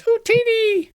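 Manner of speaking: very high squeaky goblin cheer. Acted. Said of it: "like little goblin voices".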